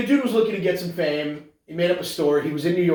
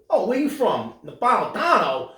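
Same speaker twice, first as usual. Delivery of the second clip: lightly hammed-up nosy nonna; a hint of higher-pitched Italian busybody; mock Italian-American women; 4 semitones higher than usual. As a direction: imitate gossiping Italian women. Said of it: "doing what typical Italian women".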